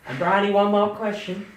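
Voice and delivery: booming Southern American preacher, high and loud; over-the-top American televangelist accent. Acted. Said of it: "I'll go back to my normal accent".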